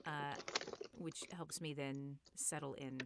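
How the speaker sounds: usual speaking voice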